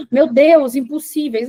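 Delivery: gasped, hammed-up alarm; mock dread. Teacher mocking the idea of impossible steps, mock dread. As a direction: gasp as if daunted, half in jest.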